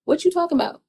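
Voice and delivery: imitated shocked pushback at a liar; mock outraged hold-up; indignant disbelief. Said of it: "And you're like".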